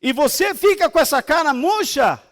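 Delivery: loud rebuking preacher; preaching at full force. Acted. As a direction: thunder it from the pulpit.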